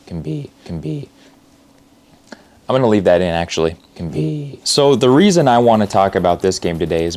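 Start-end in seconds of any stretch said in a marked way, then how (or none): 0.1-1.1 high, soft, cracking. Shown as a demonstration. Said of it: "oh, my voice cracked". 3.9-4.6 high, soft, cracking. Shown as a demonstration. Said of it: "oh, my voice cracked".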